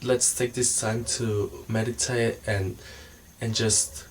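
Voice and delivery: soft, slow guiding voice; meditation voice. Acted. Vlogger to viewers, starting a meditation, soft and slow. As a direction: ease them into a calm body scan.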